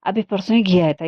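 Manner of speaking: angry brother-in-law raising his voice; loud. Acted. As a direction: call it out sharply in complaint. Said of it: "जोर से बोला".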